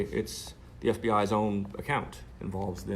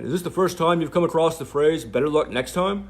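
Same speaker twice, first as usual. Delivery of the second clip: own voice, mocked; 8 semitones higher, 11 dB louder than usual. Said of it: "doing her voice and my voice".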